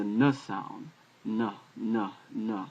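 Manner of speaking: N voiced as a short "nuh"; letter sound demo. Shown as a demonstration. Teacher sounding out Nun for learners, letter sound demo. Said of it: "is a N sound".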